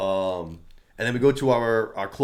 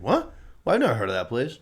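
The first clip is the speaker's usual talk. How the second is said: playing it off. Man retelling a suspect playing dumb, feigned innocence. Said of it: "Kinda trying to play it off".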